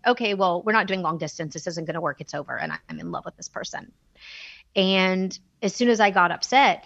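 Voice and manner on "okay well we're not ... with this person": retold crying. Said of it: "I just started crying".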